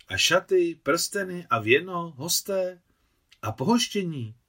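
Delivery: high, loud rapid-fire objections; fired off. A narrator's reading. Aunt firing worries at the groom, loud and high. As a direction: blurt each item out at him. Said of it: "vypálila teta Nusia rusky".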